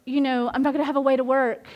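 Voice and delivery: fast, hammed-up worried babble; mock panicked rambling. Acting out her old panic over the wrecked car, rushed. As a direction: rattle it off like a mild mock panic. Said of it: "I cannot be freaking out and going".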